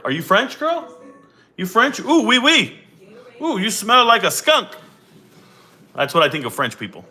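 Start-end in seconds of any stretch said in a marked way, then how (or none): 0.0-4.7 high, sing-song playful ribbing; mock teasing. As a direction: tease her like a schoolyard bully. Teasing chatter about being French.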